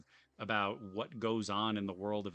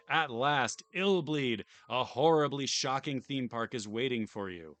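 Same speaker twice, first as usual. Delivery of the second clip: louder, theatrical showman read; hammy villain host; 3 semitones higher, 7 dB louder than usual. Acted. Streamer voicing the owner's taunting invitation, hammed-up. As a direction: sell the park like a gleeful villain. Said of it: "I don't know if I can do Michael Reynolds justice".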